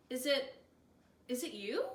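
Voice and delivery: choked, halting question; high and garbled. A narrator's reading. Tobin asks the wild man, high and garbled. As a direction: voice cracking up high. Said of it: "all high and garbled".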